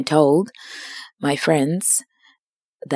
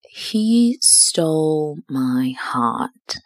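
slow, dreamy romantic delivery; much slower than usual. Retold or imitated. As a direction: swoon the words out slowly. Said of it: "said in a very romantic tone".

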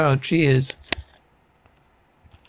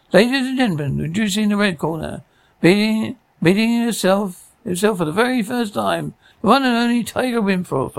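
hammed-up master of ceremonies, not shouted; ring announcer; 3 semitones higher than usual. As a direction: announce the boxers with stretched-out words. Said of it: "loud, distorted voice".

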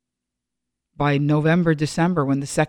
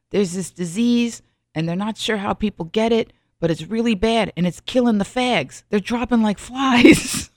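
imitated Boston accent; 4 semitones higher than usual. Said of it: "I can't do a Boston accent".

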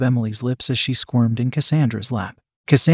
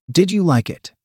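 a touch sterner, pitched up; more sternly; 5 semitones higher than usual. Acted. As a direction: demand the answer, firmer. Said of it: "repeated more sternly".

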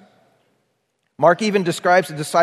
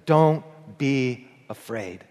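gentle reassurance; 3 semitones lower, slower than usual. Retold or imitated. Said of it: "he says".

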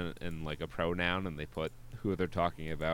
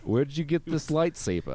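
high character voice; 9 semitones higher, 3 dB louder than usual. Pretend. Parody character voice.

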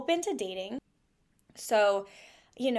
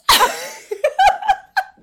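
high laugh; 11 dB louder than usual. Real, not acted. Laughing at her own story.

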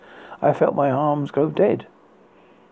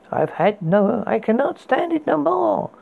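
exasperated; 7 semitones higher than usual. Acted. Exasperated complaint.

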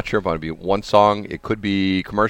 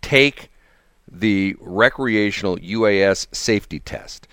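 spelled out; slower than usual. Shown as a demonstration. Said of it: "T R U S T".

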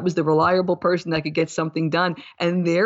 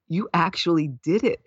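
laughing. Real, not acted. Laughing at own success.

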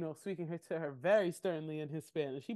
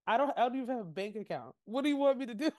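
fast, rising mock plea, higher at the end; mocking whine; 3 semitones higher, faster than usual. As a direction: throw her excuse back fast and pitched up. Mocking her excuse.

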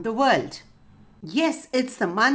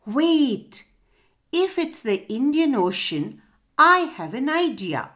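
higher, louder eager call; 4 semitones higher, 3 dB louder than usual. Acted. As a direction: burst in with a bright idea. Fish bursts in with idea.

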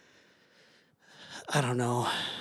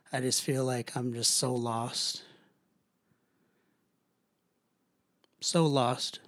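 quiet, dejected and heavy; sad and lost; 6 dB quieter, slower than usual. Real, not acted. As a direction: let the words sink, feeling lost. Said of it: "I sound annoying and like a little whiny baby".

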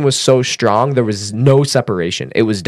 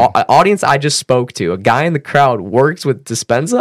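mind blown; 4 semitones higher, 3 dB louder than usual. Retold or imitated. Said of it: "Now I'm just totally mind blown".

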